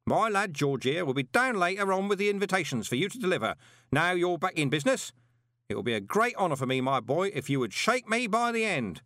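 high, loud, cheerful bellow. A narrator's reading. Parker cheerfully bellowing about his late spouses. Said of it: "bellowed cheerfully".

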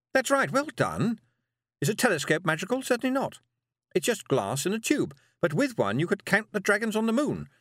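high, brisk teaching witch. Acted. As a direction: praise and lecture briskly. Witch lecture.

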